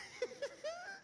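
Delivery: high-pitched laugh rising at the end; high giggle. Real, not acted. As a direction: let out a high little giggle. Comedian's own laugh between lines. (risita aguda)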